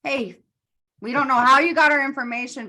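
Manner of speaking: high, fast, lightly voiced polite welcome; mock polite host. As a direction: fake a cheerful welcome, high and quick. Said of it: "And it was like".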